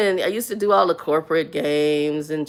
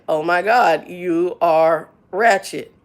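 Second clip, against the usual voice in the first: flirty phone voice; much slower than usual. Retold or imitated. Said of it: "the way she did it was like".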